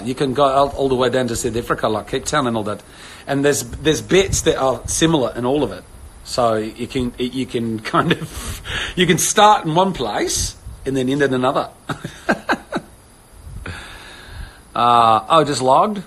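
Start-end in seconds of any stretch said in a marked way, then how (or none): 0.0-11.7 Australian sliding into South African accent. Shown as a demonstration. Showing viewers how similar accents blend, South African accent. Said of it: "then into South Africa".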